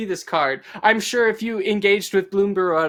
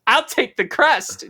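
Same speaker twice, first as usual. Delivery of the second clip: squeaky little squirrel voice, slow; tiny squeaky critter; chittering squirrel; 7 semitones higher, 3 dB louder than usual. Acted. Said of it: "chittered the squirrel".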